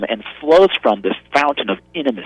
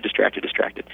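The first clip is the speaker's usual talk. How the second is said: whispered; 3 semitones lower, 6 dB quieter than usual. Retold or imitated. Mimicking wandering distracted mind.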